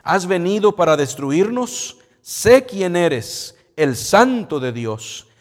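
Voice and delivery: loud, slow demon outcry; demon crying out. Acted. Demon shouting at Jesus in the synagogue, loud and slow. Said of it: "que dio voces diciendo".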